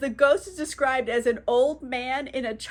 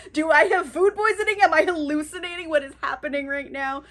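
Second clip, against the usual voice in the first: mock freaking out; 3 semitones higher, 4 dB louder, faster than usual. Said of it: "He is freaking out".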